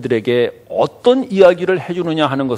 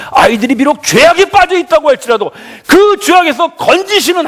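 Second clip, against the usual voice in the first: high, loud sermon in driving phrases; impassioned preaching; 11 semitones higher, 7 dB louder than usual. Real, not acted. Pastor urging parents to give God's love, impassioned preaching. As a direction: proclaim it with full pulpit force.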